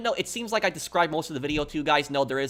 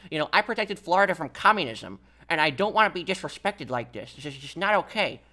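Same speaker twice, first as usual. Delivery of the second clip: lightly voiced cranky old grandpa; a hint of an old man scolding; 3 semitones higher than usual. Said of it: "when I did the old person's voice".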